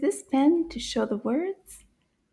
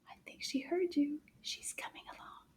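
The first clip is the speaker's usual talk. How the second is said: much softer, hushed aside; hushed anticipation; 3 semitones higher, 14 dB quieter than usual. Pretend. Teacher telling children Anana is coming, hushed. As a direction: drop to a secretive hush.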